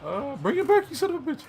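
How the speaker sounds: loud, high shouting demand; furious yell. Retold or imitated. Fan reenacting the movie scene, furious shout. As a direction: yell it at the top of your voice, enraged. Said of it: "He's like".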